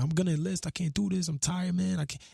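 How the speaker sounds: mildly choked, giving up; friend's room, telling him he quits, lightly tearful; crying. Retold or imitated. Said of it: "in my boy Jason's room crying".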